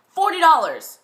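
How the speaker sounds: high, loud demand; firm demand. Acted. Vendor haggling with a shopper over a used ring, demanding. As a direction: state the price forcefully, falling at the end. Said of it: "he demanded".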